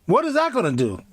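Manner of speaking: mock disbelief, pitch way up; inner outrage. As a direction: play the scandalised inner thought. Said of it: "In my head, I said".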